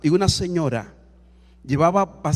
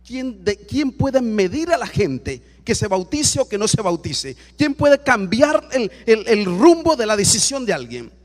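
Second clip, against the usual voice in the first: slow, emphatic indignant questions, building louder; 3 semitones higher, 4 dB louder than usual. Retold or imitated. Pastor indignant at a husband forbidding baptism, forceful and indignant. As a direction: challenge them with rising indignation. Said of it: "me dio como una indignación".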